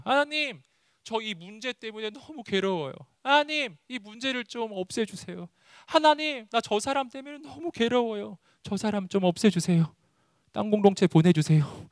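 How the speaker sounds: high, plaintive begging; mock anguished prayer. Believer begs God to remove a troublesome person, plaintive high plea. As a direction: whine a complaint up to God, high-pitched. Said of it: "뭐 이런 기도를".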